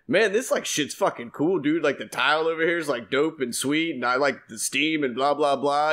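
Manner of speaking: retold gushing praise, easing off into blah blah. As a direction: gush like an excited newcomer. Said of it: "gushing about it".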